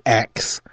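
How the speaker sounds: "ask" said as "ax"; the nonstandard "ax" for "ask"; "ax" pronunciation. Shown as a demonstration. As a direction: say "ax", k sound before the s. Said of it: "I didn't say X".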